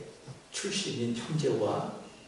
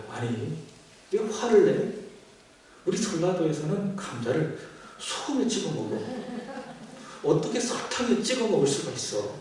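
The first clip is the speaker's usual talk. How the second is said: mock angry wife; 4 semitones higher than usual. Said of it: "아내도 역시 화를 내면서".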